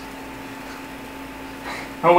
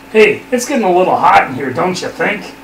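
hammy dramatic reading. Acted. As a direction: ham up the flirty line. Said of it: "a dramatic reading".

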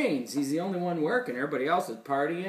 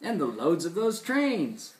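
lilting rhymed storytelling; animated read-aloud to a child; story reading; 5 dB louder than usual. A narrator's reading. Reads rhyming story.

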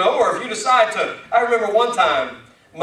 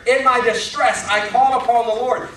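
scripture declamation; 4 semitones higher, 4 dB louder than usual. Acted. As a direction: proclaim the verse to the congregation. Reads scripture aloud.

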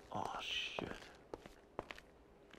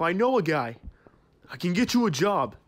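loud call; 4 semitones higher, 9 dB louder than usual. Acted. Calling after departing employee.

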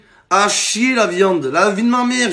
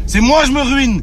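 higher-pitched quarrelling voice; heated, raised-voice comeback; angry retort; 5 semitones higher, 4 dB louder than usual. Acted. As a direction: throw the accusation back, raised and indignant. Acted shouting quarrel.

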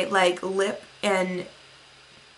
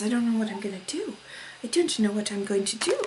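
mock overwhelmed mutter; 6 dB quieter, faster than usual. Real, not acted. Overwhelmed by choices.

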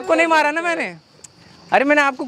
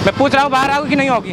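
pushy, raised-voice prank bullying; feigned anger. Pretend. Prankster ordering a fan out of the car, feigned anger. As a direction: order them out as if fed up.

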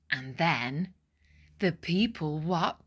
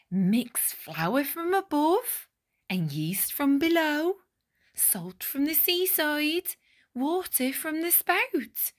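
baker's instructions; 5 semitones higher than usual. Acted. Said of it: "Bap gave instructions".

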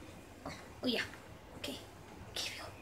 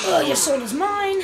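mock villain; 4 semitones higher, 5 dB louder than usual. Absorbing enemy soul.

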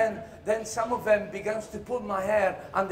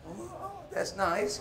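mock delight; 9 semitones higher, 6 dB quieter, slower than usual. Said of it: "reply to magician".

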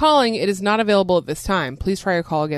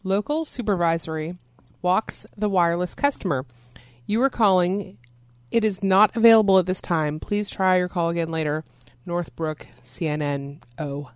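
reading with a mouthful of chips; crunching chips. Real, not acted. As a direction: talk while chewing crunchy chips. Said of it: "But I'm crunching".

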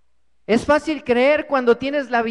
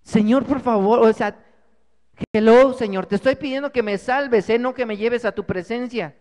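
exasperated pleading; 4 dB louder than usual. Acted. Climber insists, exasperated.

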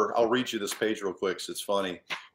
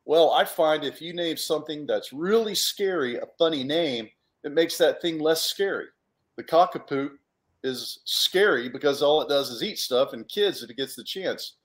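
a lightly voiced, slightly higher know-it-all; explaining character; 4 semitones higher than usual. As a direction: explain it matter-of-factly in character. Character explains funny names.

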